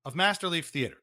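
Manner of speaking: stately, formal host intro; a hint of a solemn theatre host; mock theatre host. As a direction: play the grand television presenter.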